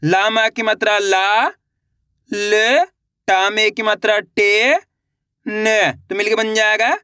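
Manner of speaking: slow, separate syllables, then the word drawn out; patient teacher dictating syllables; syllable by syllable reading. Shown as a demonstration. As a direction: spell each sound for beginners, then blend. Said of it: "देखिए किस तरीके से".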